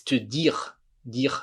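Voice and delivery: "dire" as deer, ending on R; French "dire" without the final E; silent E. Shown as a demonstration. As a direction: finish "te dire" on the throaty R. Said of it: "não falo E".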